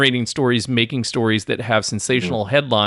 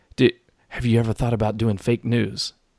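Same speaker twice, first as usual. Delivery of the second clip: quiet, hushed, secretive voice, lowered. Retelling a friend's question in the car: imitating a lowered quiet voice. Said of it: "his voice kinda a little bit quiet".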